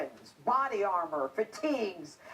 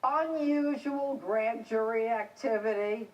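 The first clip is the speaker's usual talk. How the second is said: incredulous echo. Retold or imitated. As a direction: throw the phrase back in disbelief. Incredulously echoing the reporter's phrase.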